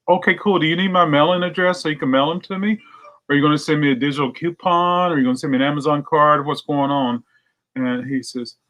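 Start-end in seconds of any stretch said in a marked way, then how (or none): 0.1-7.2 playing dumb. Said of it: "I said".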